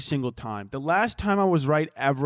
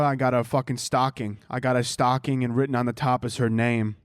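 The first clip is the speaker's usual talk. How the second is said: lightly voiced, foul-mouthed Brooklyn Santa; Brooklyn Santa Claus. Comedian greeting a kid as Santa, mock Brooklyn Santa. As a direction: play Santa as a Brooklyn wise guy, only lightly put on. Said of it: "let's pretend that I'm Santa Claus from Brooklyn".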